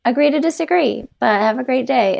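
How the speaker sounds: calm polite. Retold or imitated. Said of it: "I wish I had just been like".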